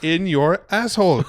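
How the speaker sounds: high, slow mock French accent; hammed-up French accent. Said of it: "talking in a French accent".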